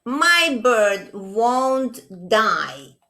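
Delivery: slow, insistent little mole voice; little Mole's voice. Acted. Mole insists to his parents, in a slow, stubborn little voice. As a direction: stretch it out like a stubborn small child. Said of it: "said Mole".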